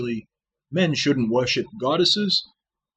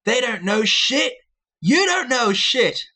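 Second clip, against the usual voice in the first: maniacal villain voice; 12 semitones higher, 3 dB louder than usual. Pretend. Vlogger mocking critics in a maniacal villain voice. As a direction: sneer the insult at the commenters. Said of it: "like this".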